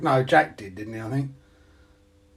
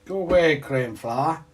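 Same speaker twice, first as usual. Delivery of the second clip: shooing shout; 4 semitones higher, 7 dB louder than usual. Real, not acted. Shooing an insect.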